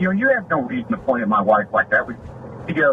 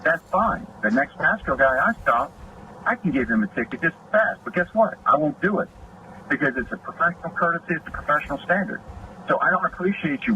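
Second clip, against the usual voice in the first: retold warning; 5 semitones higher than usual. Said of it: "I was like".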